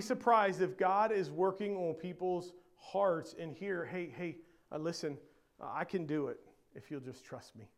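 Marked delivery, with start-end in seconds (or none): 3.9-7.7 low, hushed appeal; softly urge, as if in private; gentle coaxing. Acted. Preacher voicing God to doubting hearts, quietly coaxing.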